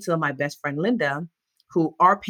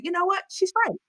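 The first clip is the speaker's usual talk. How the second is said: realization; 13 semitones higher than usual. Retold or imitated. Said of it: "look around and say".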